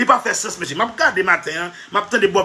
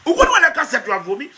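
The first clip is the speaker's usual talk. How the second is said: raised repeat; 4 semitones higher than usual. Shown as a demonstration. Speaker repeating the joke line for effect, raised and laughing.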